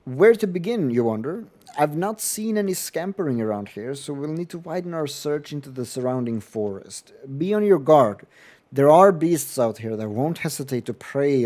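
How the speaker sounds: character voice. Acted. Reads game character dialogue.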